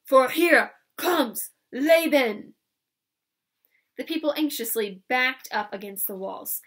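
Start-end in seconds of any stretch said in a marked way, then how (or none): 0.0-2.5 slow roaring bully, much louder; bellowing brute. A narrator's reading. Drunk Laban roaring at the crowd, slow bellow. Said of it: "he cried".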